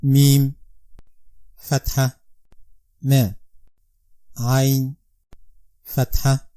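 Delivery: Arabic letter names and sounds said gently, one by one; soft spelling drill. Shown as a demonstration. Teacher quietly spelling a Quranic word for pupils. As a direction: spell "mim, fatha, ma" softly and separately. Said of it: "pay attention to the next".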